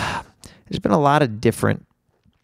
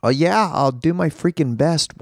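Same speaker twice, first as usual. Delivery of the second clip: higher, slow, drawn-out self-quote; mock willingness; 6 semitones higher than usual. Podcaster quoting his own promise to fans, slow mocking voice. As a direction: mimic your own keen promise. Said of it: "And then I'm like".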